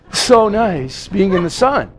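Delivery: slow, lazy sunbathing drawl with a laugh; lazy bird voice. Acted. Preacher voicing lazy birds, slow and laughing. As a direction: lounge on the words like a bird on the beach. Birds lounging on Florida beaches.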